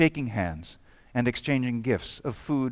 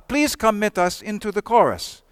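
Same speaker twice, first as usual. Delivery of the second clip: called out; 8 semitones higher, 4 dB louder than usual. Retold or imitated. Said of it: "a German called out".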